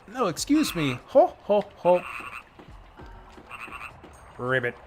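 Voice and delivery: a bouncy hammed-up video-game frog; Tetris Attack frog. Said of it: "Frog from Tetris Attack impression".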